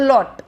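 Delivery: अलॉट with a faint अ, prominent लॉट; stress on second syllable. Shown as a demonstration. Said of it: "लॉट ज़्यादा सुनाई देता है".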